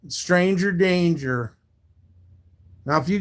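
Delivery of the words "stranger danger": mocking singsong. Mocking a troll in chat.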